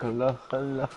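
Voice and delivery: mock Arabic gibberish syllables; mock Arabic accent. Friend pretending to start up in Arabic, mock Arabic. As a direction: badly fake Arabic sounds. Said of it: "doing an Arabic accent".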